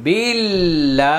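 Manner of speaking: বিল্লা with a thin, light ল্ল, drawn out slowly; light lam, slow. Shown as a demonstration. Teacher showing students a light lam, slow and drawn out. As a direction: keep the ল্ল light and stretch it. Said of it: "এক আলিফ টানিয়ে পড়তে হবে".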